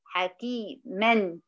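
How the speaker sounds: حكيمًا drawn out very slowly so the final nun rings; tanween demo. Shown as a demonstration. Teacher showing students the tanween nun, very slow. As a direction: stretch حكيمًا to let the hidden nun be heard. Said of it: "أهي نون بننطقها نون".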